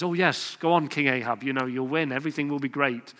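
understated sarcastic brush-off. Retold or imitated. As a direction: say it with a sneer, not meaning a word. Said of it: "sarcastically says".

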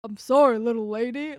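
loud, hammed-up rock-and-roll idol impression; playful put-on Southern showman voice; a famous singer. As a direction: belt out a mock apology in his voice. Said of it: "in the singer voice".

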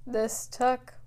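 slow, flat robot monotone. Real, not acted. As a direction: drone it out like a tired robot. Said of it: "I am speaking like a robot".

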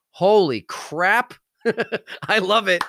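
slow, high thrilled outburst with laugh; excited. Real, not acted. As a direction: burst out laughing with delight. Thrilled outburst about his book.

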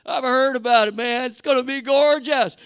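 a hint of a gushing tourist, hushed then brighter; mock sightseer marvelling at the sea; awed tourist. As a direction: Israelites at the Red Sea, lightly acted wonder. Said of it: "And you can hear 'em".

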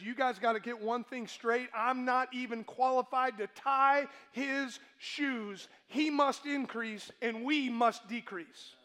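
slow, firm mild sternness; stern, emphatic. Retold or imitated. John to his disciples, mildly stern and emphatic. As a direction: lay it down like a mild stern warning. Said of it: "very sternly and very emphatically".

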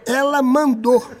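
drawn-out emphatic words; slow, deliberate reveal. Retold or imitated. Man telling the star what was ordered, slow and emphatic. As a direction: spell it out slowly. Drawing out the revelation.

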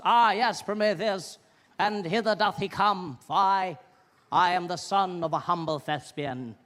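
mock theatrical declaiming; pompous stage actor. Mocking stage actors on a Manchester stage in a theatrical voice. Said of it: "actors just walking out there with their big collars".

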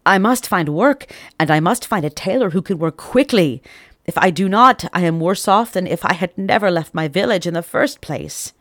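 put-on worried young man's resolve; anxious resolve. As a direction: talk yourself into action.

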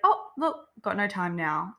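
play-acting a fake excuse to yourself; mock surprised excuse. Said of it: "And then I'd be like".

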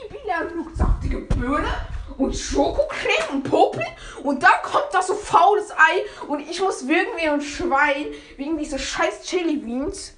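laughing through the words; giggling recap of disgust. Real, not acted. Laughing while recapping gross flavors.

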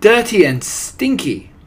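high, loud echoing crowd; worked-up audience cry; excited cry. A narrator's reading. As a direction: echo it shrieking with eagerness. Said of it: "cried the audience".

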